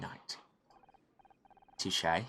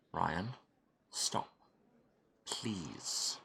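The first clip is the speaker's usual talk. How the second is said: soft, whispered begging; whispered plea; 2 semitones lower, 7 dB quieter, much slower than usual. Acted. Begging Ryan to stop, whispered plea. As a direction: beg under the breath.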